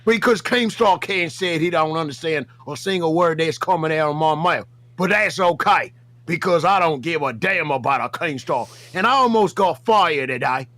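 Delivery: put-on rough Australian accent for the bit; put-on Aussie accent. The speaker calling out Buff Weeb in a put-on Aussie accent. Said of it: "Why are you Australian?".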